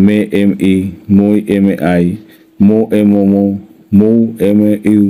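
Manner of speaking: spaced-out syllables, each followed by its letters; measured spelling drill. Shown as a demonstration. Teacher showing students how to pronounce, measured spelling drill. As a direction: recite evenly with gaps for repeating. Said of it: "এইভাবে উচ্চারণগুলি করো".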